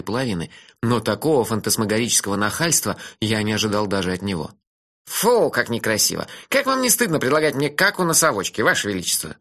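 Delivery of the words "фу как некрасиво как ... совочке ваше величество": pinched voice. Acted. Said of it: "Тоном малолетней гимназистки пропищал".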